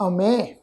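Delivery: ਅਮੇ with a long "e" ending; pronunciation demo. Shown as a demonstration. Teacher shows how to read the word, ਅਮੇ as "a-mey". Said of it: "ਇਸ ਸ਼ਬਦ ਦਾ ਪਾਠ ਉਚਾਰਨ ਕਰਾਂਗੇ".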